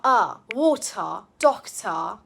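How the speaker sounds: ER, then WATER and DOCTOR ending in soft "uh"; relaxed schwa. Shown as a demonstration. Teacher modelling schwa for learners, relaxed ending. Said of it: "it is a relaxed, soft er sound".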